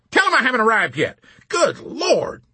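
high, loud panicked scream. A narrator's reading. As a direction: scream it in alarm. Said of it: "General Peckham screamed".

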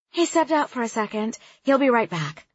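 put-on young woman voice. Soraya voiced.

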